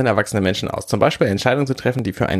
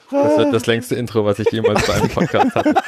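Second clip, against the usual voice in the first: laughing. Real, not acted. Giggling through the intro.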